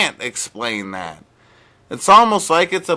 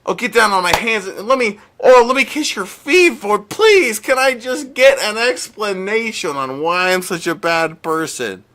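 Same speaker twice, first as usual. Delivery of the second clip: louder, higher mock grovelling with a squeaked please; hammed-up begging; 4 semitones higher, 4 dB louder than usual. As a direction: beg like kissing his feet, overdone. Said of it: "I'm begging for an explanation".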